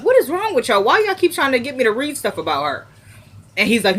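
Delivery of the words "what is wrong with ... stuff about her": high-pitched retold complaint; mock exasperation. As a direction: complain at them, pitch leaping up. Boss fed up with staff.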